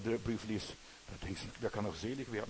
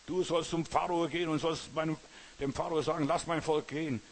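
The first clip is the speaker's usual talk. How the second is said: a slightly raised, insistent voice of command; lightly acted divine order, pitched up; God commanding Moses; 4 semitones higher than usual. (leicht gespielter Befehl Gottes)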